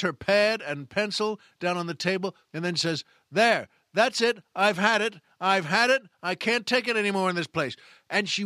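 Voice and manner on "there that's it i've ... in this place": louder, higher waitress blowing up; hammed-up fed-up quitting rant; mock furious outburst. Waitress quitting on the customer, loud mock fury. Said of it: "now she gets really mad".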